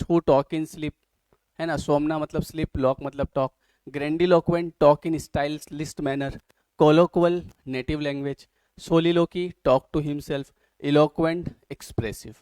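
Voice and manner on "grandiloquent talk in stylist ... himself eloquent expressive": very slow, loud, word-by-word dictation. Acted. Teacher dictating definitions to students, slow and loud. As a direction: spell it out slowly so students can write.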